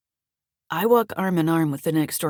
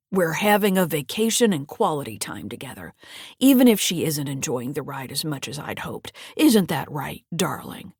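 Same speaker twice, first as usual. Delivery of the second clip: oily granddad; 3 semitones lower than usual. Acted. Granddad voiced, lower.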